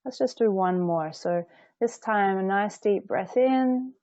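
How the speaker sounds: measured meditation guide with long pauses; unhurried phrases, room to breathe between; guided meditation. Acted. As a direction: lead them gently through the breath.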